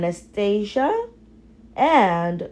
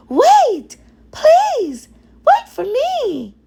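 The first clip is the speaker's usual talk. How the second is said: much higher, louder plea; calling out; 6 dB louder than usual. Acted. Cinderella calls after her stepfamily as she runs down, much higher and loud. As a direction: call after them, pleading.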